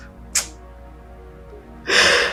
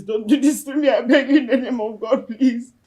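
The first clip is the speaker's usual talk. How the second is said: pleading on the edge of sobs; tearful begging; 2 semitones lower than usual. Acted. Child begging mother in God's name, tearful. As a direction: plead desperately, close to crying.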